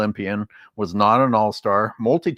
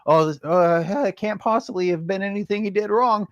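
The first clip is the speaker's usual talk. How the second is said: high, airy mock-innocent fan voice; sing-song denial of any blame; 8 semitones higher than usual. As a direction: play the blindly loyal fan. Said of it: "They're like".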